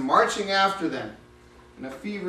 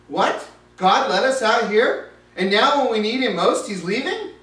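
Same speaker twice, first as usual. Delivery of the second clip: panicked Israelites; 4 semitones higher, 6 dB louder than usual. Acted. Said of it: "the Israelites were panicking".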